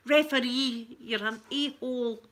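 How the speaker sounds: mock shout at the referee. Fan heckling the referee on the telly, mock shout. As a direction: heckle the ref, half laughing. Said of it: "I'll be shouting all that".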